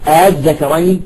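"الذكرين" with the second hamza softened; no hard second glottal stop opening "الذكرين"; eased hamza. Shown as a demonstration. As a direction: glide into "الذكرين" after the first vowel. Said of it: "تسهيل مثل".

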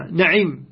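نعم as na'im, open a on the nun; fatha nun, kasra ayn. Shown as a demonstration. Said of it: "هكذا".

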